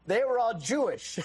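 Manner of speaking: amused correction ending in laughter. Real, not acted. Amused reply to caller's joke.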